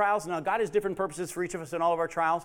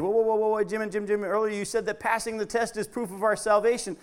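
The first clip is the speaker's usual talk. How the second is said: objecting listener; 3 semitones higher than usual. Retold or imitated. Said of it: "Some of you would say".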